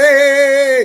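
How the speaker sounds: defensive protest. Retold or imitated. Narrator defends himself.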